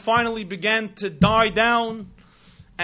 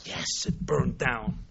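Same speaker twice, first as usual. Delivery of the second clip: low, slow, softer answer; subdued confirmation; 9 semitones lower, 6 dB quieter, slower than usual. Retold or imitated. Manager answering the miser between you and I, low subdued confirmation. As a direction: confirm it gravely and quietly. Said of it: "the man is now trembling, pale".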